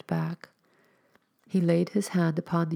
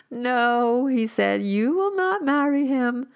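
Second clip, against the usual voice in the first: higher, louder commanding no; firm forbidding; 8 semitones higher, 6 dB louder, slower than usual. A narrator's reading. Stranger forbids the girl's marriage, commanding and loud. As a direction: forbid it with full authority.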